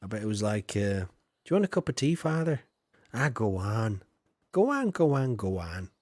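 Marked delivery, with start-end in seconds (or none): 1.0-2.6 higher, fast sugary offer of tea; butter up your father; mock polite child voice; sweet offer. 3.1-5.9 Father Ted style. Retold or imitated. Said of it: "Like Father Ted style".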